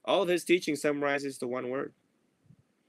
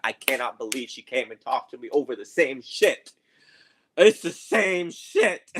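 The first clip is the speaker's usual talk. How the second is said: hammed-up griping about the same old problem; mock exasperated complaint; 4 dB louder than usual. Imitating Christine complaining about a customer.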